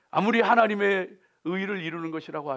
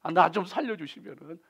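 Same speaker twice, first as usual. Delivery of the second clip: bargaining plea; 4 semitones higher than usual. Retold or imitated. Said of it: "뭐 이러면서 바게닝 들어가는 거예요".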